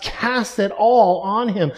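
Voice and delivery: slow, with all pressed hard; stress on all. Shown as a demonstration. Preacher to his congregation, stressing all slowly. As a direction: lean on the word all, slowly. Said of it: "the word all is emphatic".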